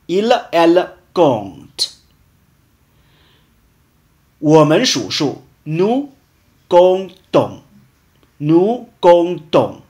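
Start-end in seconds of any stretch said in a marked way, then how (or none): 5.7-9.8 comptons said slowly with the p silent. Shown as a demonstration. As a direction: model comptons for learners, no p sound. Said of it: "注意，p是不发音的". (comptons里的p不发音)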